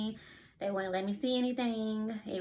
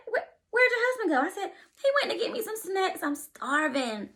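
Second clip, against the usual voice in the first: high, teary voice; speaking through happy tears; tearful; 10 semitones higher, 3 dB louder than usual. Real, not acted. Retelling while emotional.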